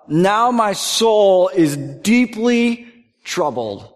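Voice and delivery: slow, heavy, deeply troubled; dragged out in anguish. Acted. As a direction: let each word weigh on him. Preacher voicing Jesus' anguish.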